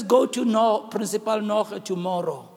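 low, soft, slow divine instruction; voice of God. Retold or imitated. God telling the pastor where to go, low and soft. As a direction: speak as God guiding him, quietly. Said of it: "And he says".

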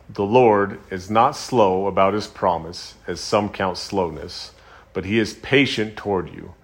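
solemn, measured scripture reading. Acted. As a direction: read the verse slowly, weighing each phrase. Reads scripture aloud.

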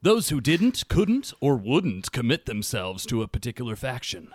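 measured, dramatic read-aloud with deliberate pauses; best reading voice. Real, not acted. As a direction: read the lore aloud, lowering the line endings. Reading faction lore aloud.

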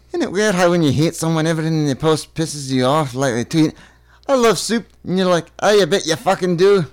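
high-pitched Scottish rant; Scottish accent. Acted. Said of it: "This is the best accent work".

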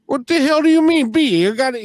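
hammed-up Boston tough guy insisting; Boston attitude. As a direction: imitate a brash Boston guy arguing. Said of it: "with his Boston attitude".

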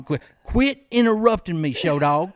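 high, loud mock scold. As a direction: playfully tell him to stop interrupting. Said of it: "He said".

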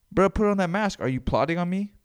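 loud, high accusing shout; suspicious shopper. Acted. Paranoid shopper shouting at a stranger in the grocery store. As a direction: yell at a stranger to mask up.

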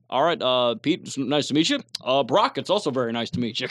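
two politicians voiced identically, low and measured; Pete Buttigieg and Barack Obama. Two politicians greeting each other, same mock-presidential voice. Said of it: "'cause they sound exactly the fucking same".

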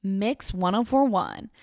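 a hint of a gushing fan, slowing at the end; light impression of an eager listener; mock gushing caller. Vlogger imitating Cheryl praising the station, lightly voiced. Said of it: "And she's like".

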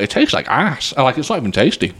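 talking while chewing; words round a mouthful of chip. Real, not acted. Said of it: "Sorry for the chewing sounds".

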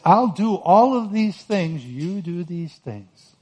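lightly voiced God, slow and grave; God speaking. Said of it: "he says".

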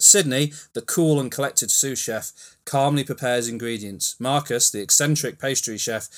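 lively storybook narrator reading stage directions; dramatic narration. A narrator's reading. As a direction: set the scene like an eager narrator.

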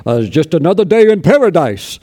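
a hint of a cheerful Irish brogue; Irish accent. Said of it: "with that thick Irish accent".

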